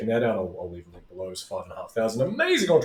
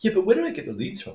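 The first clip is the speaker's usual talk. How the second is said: mock client whine; 11 semitones higher, 4 dB louder, faster than usual. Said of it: "they'll be like".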